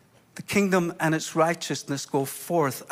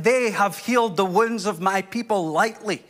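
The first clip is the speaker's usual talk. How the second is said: forceful, broad Scottish pronouncement; thickened Scottish accent, firmly delivered; 2 semitones higher, 4 dB louder than usual. Shown as a demonstration. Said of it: "in a broad Scottish accent".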